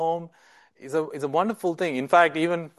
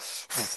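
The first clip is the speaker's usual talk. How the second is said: sharp sniff; 6 semitones lower, 13 dB quieter than usual. Retold or imitated. Martha fuming as she works, a huffing sniff. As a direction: sniff in frustration. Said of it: "like, breathing".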